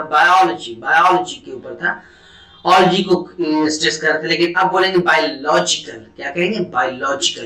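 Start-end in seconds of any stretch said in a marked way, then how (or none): 0.0-0.7 बायोलॉजी with the stress on the first part; stress demo. Shown as a demonstration. Teacher showing the class where बायोलॉजी takes its stress. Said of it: "stress पहले बायोलॉजी के ऊपर था". 6.6-7.5 बायोलॉजिकल with the stress moved onto लॉज; stress on loj. Shown as a demonstration. Teacher showing students the stress shifting to लॉज in बायोलॉजिकल. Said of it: "लॉज के ऊपर stress को transfer कर देंगे".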